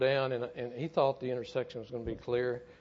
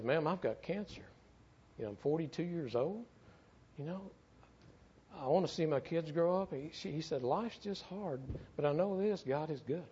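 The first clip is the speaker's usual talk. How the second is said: gentle, higher and softer, heartfelt; sincere plea; 4 semitones higher, 4 dB quieter than usual. Retold or imitated. Firefighter with cancer comforting a bitter mother, soft and sincere. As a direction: speak it softly from the heart, pitched up. Dying friend answers grieving mother.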